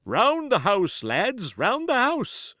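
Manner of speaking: high, loud shouted command; changed urgent cry. A narrator's reading. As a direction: cry out the order mid-battle. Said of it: "I perceived a change in his voice".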